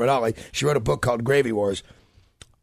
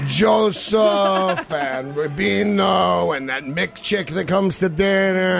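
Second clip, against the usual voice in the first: slow, sarcastic mock blessing; hammed-up sarcastic blessing; 2 semitones higher, much slower than usual. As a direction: bless them with heavy irony. Mock toast roasting in-laws.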